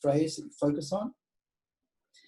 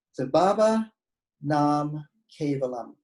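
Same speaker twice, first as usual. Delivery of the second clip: Baba, Nam, Kevalam each said separately and firmly; staccato, word by word; 3 dB louder, slower than usual. Shown as a demonstration. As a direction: give each word its own beat. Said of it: "Repeat it after me".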